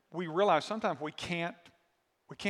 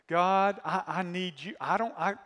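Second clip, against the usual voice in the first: pleading prayer. Acted. Voiced prayer to God.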